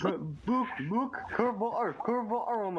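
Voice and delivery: high-pitched mock Scot; bad Scottish accent. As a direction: badly imitate an excitable Scotsman. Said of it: "your impression of the accent is shit".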